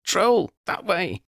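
high, slow call to the group. Acted. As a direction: call out the direction. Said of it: "called Lydia".

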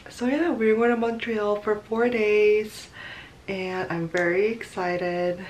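groggy morning voice; just woke up, voice still rough. Real, not acted. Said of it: "I still have my morning voice".

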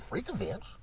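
high, rising astonished question; shocked disbelief. Retold or imitated. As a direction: squeak it out in disbelief. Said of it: "I'm like".

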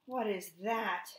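storybook duck, mildly quacky; quacking duck. A narrator's reading. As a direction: let Duck exclaim in wonder, lightly voiced. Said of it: "Duck quacked".

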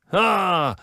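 a roared, triumphant exclamation; roaring. A narrator's reading. Spaniard haranguing the colonists, roaring a laugh. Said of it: "ryczał Gradas".

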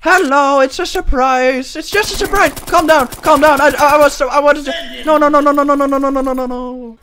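high mock panic. Panicked squeaky voice to enemy.

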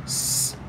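S as a soft, drawn-out "sss"; initial letter sound. Shown as a demonstration. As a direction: hiss S without voice, sss. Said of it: "initial sound or middle sound".

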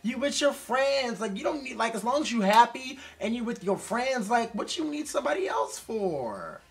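excited big-brother encouragement; high hyped pep talk. Real, not acted. Talking to the sad singer, excited high pep talk. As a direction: pitch up high and push it, cheering him on.

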